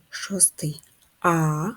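slow whispered sound naming. Shown as a demonstration. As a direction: whisper it slowly.

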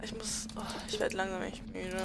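drowsy, half-whispered and fading; barely awake, eyes closing; nodding off. Real, not acted. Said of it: "mir fallen die Augen zu".

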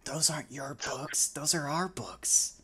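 a hint of a defiant kid; little girl voice. Little girl correcting the author about her books.

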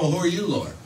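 offhand, unbothered question; mild casual ask. Shown as a demonstration. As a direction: ask it like nothing is wrong. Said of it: "So it wasn't like".

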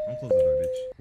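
loud, sharp yell with a high cracking last word. Real, not acted. Worker yelling at a player closing the door, loud. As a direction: shout him down before he shuts it.

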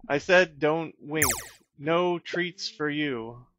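a lightly voiced stern bear; scolding bear.

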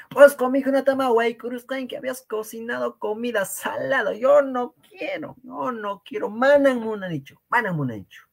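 rechazo agudo, teatral; queja actuada. Acted. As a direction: protesta con voz muy aguda, como de ejemplo. Ejemplo actuado: rechaza comida salada. (queja fingida en tono alto)

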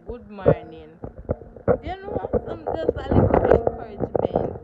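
loud, bright-pitched hello; big friendly greeting, loud and high; cheerful greeting. Real, not acted. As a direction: call out good morning cheerfully.

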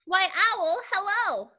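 mouse voice. Acted. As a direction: greet them as a perky storybook mouse. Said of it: "such an impressive mouth voice".

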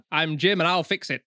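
put-on northern English voice; northern English accent. Shown as a demonstration. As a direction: do a light northern English impression. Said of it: "he's kind of got a northern accent".

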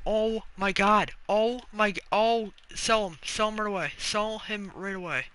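loud, stretched-out, amazed urging; excited urgency. Real, not acted. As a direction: urge it along, still buzzing. Urgently selling after the pull.

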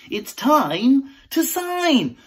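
put-on slow, sing-song children's presenter; kids' TV voice. Parody of a kids' TV presenter teaching sign language, slow and sing-song. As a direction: talk slowly like a signing kids' host.

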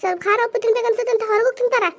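high, aggrieved complaint. Acted. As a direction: vent your grievance to the neighbour. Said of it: "ಒದರ್ತೀಯ". (ಒದರುತ್ತಾ ದೂರುವ ಧ್ವನಿ)

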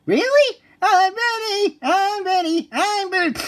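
high, excited squeals; overjoyed. Acted. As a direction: bounce with pure joy. Thrilled to finally drive.

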